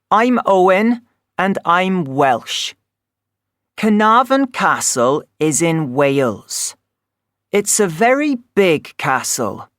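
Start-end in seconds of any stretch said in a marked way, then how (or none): none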